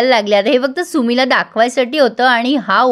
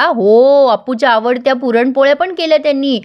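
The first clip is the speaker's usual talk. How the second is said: goading. Retold or imitated. Nikhil egging Sumi on about Appu's favours, mildly goading. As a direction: lean on the yes, mildly teasing. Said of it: "Nikhil अजून चिडवतो तिला".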